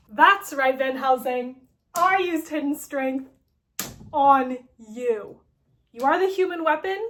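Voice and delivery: loud, triumphant villain reveal; hammy villain shouting his big secret; gloating villain. Retold or imitated. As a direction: crow it out like a mad schemer.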